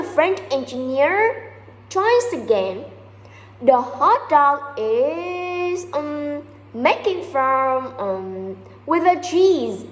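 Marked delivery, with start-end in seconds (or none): 3.6-9.8 very slow, stumbling for the words; halting word search. Retold or imitated. French engineer tries again to explain the cheese, halting and slow. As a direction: grope for each word, pausing mid-sentence.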